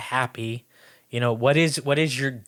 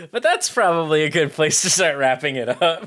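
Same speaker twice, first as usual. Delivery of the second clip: laughing; 3 semitones higher than usual. Real, not acted. Laughing while wrapping up.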